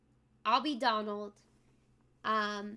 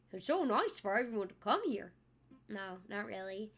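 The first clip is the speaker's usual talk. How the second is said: Donald impression; 2 semitones higher than usual. Donald Duck voice greeting chatters on stream. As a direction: quack the greetings like a cartoon duck. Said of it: "That's my Donald".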